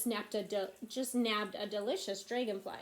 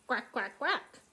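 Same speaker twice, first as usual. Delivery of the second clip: wood frog call; slower than usual. Shown as a demonstration. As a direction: playfully imitate a quacking frog. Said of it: "wood frog. He goes".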